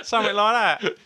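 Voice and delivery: high, loud quacking duck voice. Shown as a demonstration. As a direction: talk like a cartoon duck. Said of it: "he does a duck voice".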